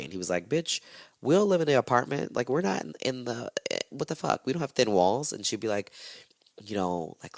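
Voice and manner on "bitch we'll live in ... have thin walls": lightly voiced dismissive husband, a bit higher; mock husband. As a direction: brush her off with a mocking sneer. Husband mocked in retold quarrel.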